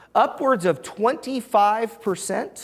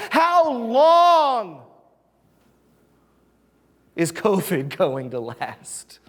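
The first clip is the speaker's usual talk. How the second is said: lamenting questions; 6 semitones higher, slower than usual. Retold or imitated. Voicing people's lament questions.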